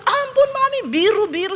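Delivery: very high pleading yelp; high-pitched mock cry of pain; retold child's cry. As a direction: imitate a child begging for mercy. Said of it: "Dia teriak".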